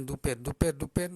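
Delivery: quick repeated "duper" with an OO vowel; mispronounced doper. Shown as a demonstration. Teacher showing students the wrong form, "duper" with OO. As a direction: say "duper" wrongly, OO in place of long O.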